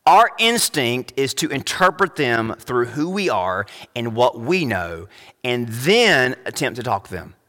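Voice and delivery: measured, deliberate delivery; slow down so each phrase lands; slowly. Shown as a demonstration. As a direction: spell the point out slowly. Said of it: "let me say this slowly".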